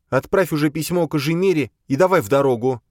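put-on high, impatient young woman's voice; an exasperated girl pushing to leave; Boya, impatient. Boya impatient with the others, high and pushy.

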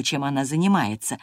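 ordinary delivery, nothing marked

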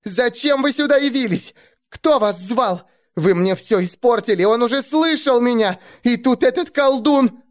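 put-on high, furious girl shouting accusations; enraged girl, her spell ruined; spiteful girl's voice. A narrator's reading. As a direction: hurl the blame at them. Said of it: "полный злобы девичий голос".

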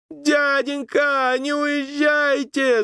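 high, slow pleading cry; desperate shout. A narrator's reading. Boy begging the boatmen not to leave, shouting. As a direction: shout after them, afraid they leave. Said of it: "закричал он".

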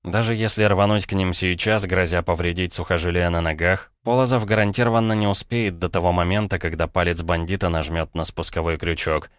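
plain reading voice

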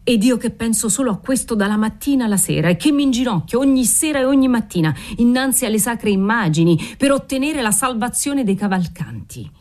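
father piling on guilt, understated anger; mild building reproach. Acted.

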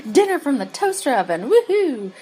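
high sarcastic fake cheer; mock cheer. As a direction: cheer it with mocking enthusiasm. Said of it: "She's like".

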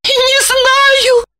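high shaken voice; high distressed reply; distraught. A narrator's reading. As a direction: answer in shock. Lipochka in shock.

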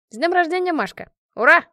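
high, rousing birthday wish; festive cheer. A narrator's reading. Friend closes her birthday toast, cheering. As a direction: build to a loud hurrah.

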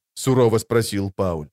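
usual speaking voice

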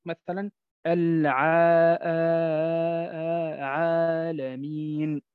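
عالمين with a long thin alif, slow; light alif. Shown as a demonstration. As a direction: stretch the آ of عالمين light and forward. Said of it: "متى ترقق؟". (ألف مرققة ممدودة في عالمين)

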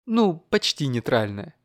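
plain reading voice

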